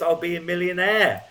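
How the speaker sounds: bubbling over with delight as he remembers; laughing with joy. Retold or imitated. Prisoner recalling his joy in the cell, laughing. Joyful thoughts after feeling God's presence.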